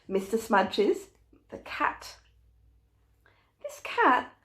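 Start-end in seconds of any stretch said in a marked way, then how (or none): 1.5-2.2 soft secret whisper of the answer; whispered reveal. Real, not acted.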